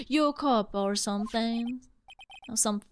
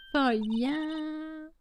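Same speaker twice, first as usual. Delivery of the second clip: a drawled for ya, a little higher; Southern accent; 6 semitones higher than usual. Acted. Player enjoys her accent, drawled Southern. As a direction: savour the Southern vowel. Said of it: "I love doing accents".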